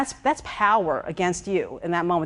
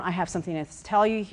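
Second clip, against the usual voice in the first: lower voice; 3 dB quieter than usual. Shown as a demonstration. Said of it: "You put that voice down".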